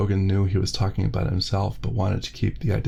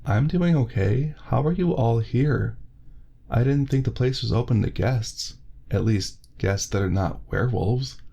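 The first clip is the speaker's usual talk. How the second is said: lightly voiced Isaiah; 3 semitones higher than usual. Werewolf Isaiah answering the doctor, lightly voiced and polite. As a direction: ease into it politely, a touch higher.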